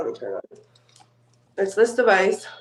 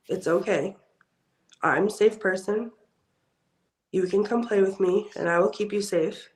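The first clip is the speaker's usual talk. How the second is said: nice, reassuring. Real, not acted. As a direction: gently coax someone frightened to trust you. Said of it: "just say something nice".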